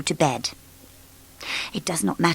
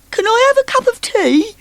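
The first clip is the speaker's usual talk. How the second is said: high, polite, oblivious; cheery Muddle; 5 dB louder than usual. Acted. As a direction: ask it sweetly.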